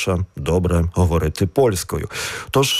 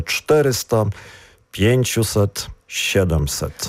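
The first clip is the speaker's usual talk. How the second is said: "czterysta, pięciuset, siedemset" stressed on the third-last syllable; stress third from end. Shown as a demonstration. Teacher showing numeral examples, stress on third-last syllable. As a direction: hit CZTE, PIĘ, SIE in "czterysta, pięciuset, siedemset". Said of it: "Третій склад від кінця, і тут наголос".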